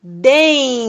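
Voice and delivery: Dem said alone as a clean isolated syllable; initial syllable. Shown as a demonstration. Teacher answering her own question for the class: Dem. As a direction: give only the sound Dem. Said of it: "Qual será a sílaba inicial?".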